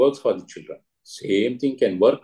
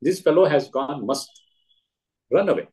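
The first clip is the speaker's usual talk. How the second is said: mild mock shout; 3 semitones higher than usual. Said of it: "he's shouting".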